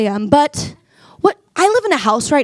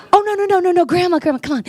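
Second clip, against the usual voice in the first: laughing no no no, higher; laughing protest; 4 semitones higher, much faster than usual. Retold or imitated. Granddaughter correcting grandma, laughing in protest. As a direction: wave it off through a laugh. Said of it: "And I'll be like".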